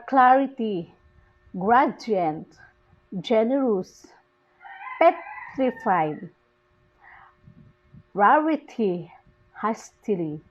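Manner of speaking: CLAR-ity, GRA-dient, GEN-erous, PET-rified, RAR-ity, HAS-tily; strong opening syllable on clarity, gradient, generous, petrified, rarity, hastily; first-syllable stress. Shown as a demonstration. Teacher giving three-syllable examples, first syllable stressed in each, clarity to hastily. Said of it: "The stress falls on the first syllable".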